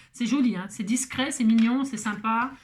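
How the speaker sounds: mock gushing compliments; insincere praise. Crafter mocking her own forced praise of the card. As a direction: praise it with fake sincerity. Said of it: "Ça m'a l'air sincère".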